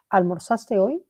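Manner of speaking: "Almorzaste hoy" asked with a lift on "hoy"; teacher's example question, "hoy" going up; question intonation. Shown as a demonstration. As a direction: rise at the end on "hoy". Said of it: "tiene entonación de pregunta".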